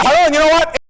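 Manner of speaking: high, loud booming pitch; too loud. Shown as a demonstration. Overloud salesman blasting his pitch at a client. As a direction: blast him with your voice. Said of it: "blow him away with the volume of your voice".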